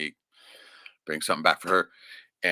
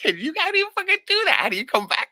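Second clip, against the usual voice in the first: high, laughing words of disbelief; 6 dB louder than usual. Real, not acted. Talking about his saintly mother, laughing in disbelief. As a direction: laugh through it, amazed anyone could be that kind.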